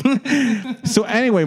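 high laughing through it; giggling. Real, not acted. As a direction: laughs while moving on. Laughing at own story.

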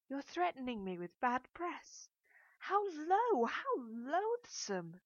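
high, loud, slow indignant outcry; loud slow outraged protest. A narrator's reading. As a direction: spit out the disgust, drawing it out. Narrator outraged at blackmail threat.

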